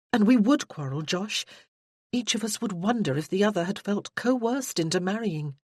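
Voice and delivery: a hint of a worried fiancée; Freya's voice. Freya explains her doubt to Josh, lightly voiced and anxious.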